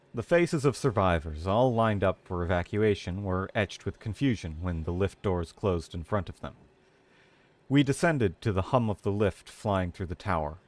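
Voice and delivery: even, measured storytelling; story narration. Acted. Streamer reading the story aloud, steady narration. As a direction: tell it like an audiobook.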